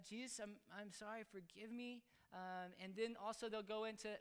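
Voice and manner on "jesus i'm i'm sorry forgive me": softly voiced little apology; simple child's prayer. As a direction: pray it quietly, as a child would.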